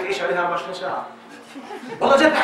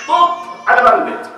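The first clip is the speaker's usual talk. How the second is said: mock exasperated cry; 11 semitones higher, 6 dB louder than usual. Mocking the intruding father.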